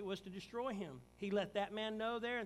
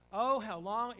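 a loud, exasperated "Oh, how long"; louder, frustrated sigh of a plea; frustrated cry; 3 semitones higher, 11 dB louder, slower than usual. Acted. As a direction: cry it out, fed up with them. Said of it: "it sounds like he's kind of frustrated".

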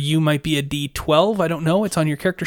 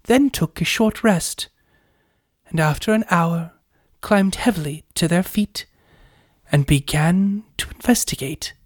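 story narration. Acted. Narrates recap scene.

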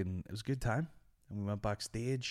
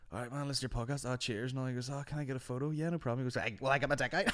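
camp fan impression; 5 semitones higher, faster than usual. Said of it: "gay Tourette's".

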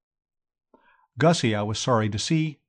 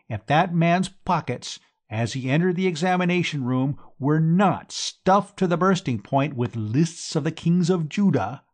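higher, ranting accusation; drunken denunciation; 5 semitones higher than usual. Acted. Gussie accusing Bertie before the school, ranting. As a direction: rant it to the whole hall.

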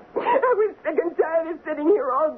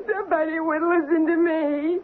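tearful; 3 semitones higher than usual. Acted. Millie tells Ralph why she let the woman in, tearful. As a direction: voice breaking into a cry. Lonely wife breaking down.

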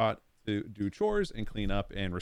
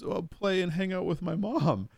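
put-on high, slow, sweet child voice; mock angelic kid; innocent kid; 10 semitones higher, 3 dB louder than usual. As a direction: play the innocent little boy backpedalling. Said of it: "He goes".

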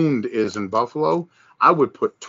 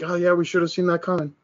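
mock realisation; 6 semitones higher, 3 dB quieter, faster than usual. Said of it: "I almost look at that going like".

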